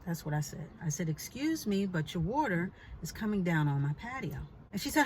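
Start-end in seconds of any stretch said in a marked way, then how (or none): 1.1-4.4 composed polite complaint; calm good-girl voice. Retold or imitated. Telling the neighbor about dripping water, calm and polite. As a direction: stay calm, no yelling. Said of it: "My calm, Dolce Dawn voice".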